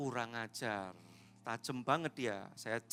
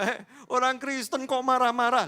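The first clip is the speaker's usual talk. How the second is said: mock scandalized onlooker; 8 semitones higher, 12 dB louder than usual.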